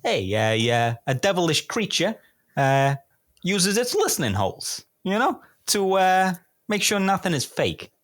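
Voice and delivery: clue read in a high, hammed-up American accent. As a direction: play a stereotypical American reading the clue. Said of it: "American accent would be lovely".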